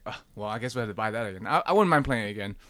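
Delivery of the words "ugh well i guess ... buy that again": soft, quick resigned grumble. Retold or imitated. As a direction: give in with a quiet mock sigh. Quotes own reluctant resignation to buying.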